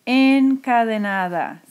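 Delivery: palabra alargada, lenta y didáctica; dicho despacio. Shown as a demonstration. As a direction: di "encadenada" lento, marcando cada sílaba. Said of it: "o sea, rima". (encadenada, pausado y silabeado)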